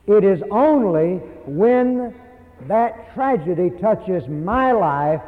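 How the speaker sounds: slowed, weighty delivery; slow and grave, driving the point home; slow deliberate emphasis. Real, not acted. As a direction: lean on each word slowly. Preacher slows for emphasis.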